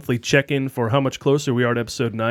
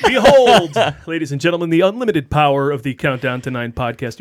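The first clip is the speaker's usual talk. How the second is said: florid victorian lecturer. Pretend. Grand podcast opening announcement.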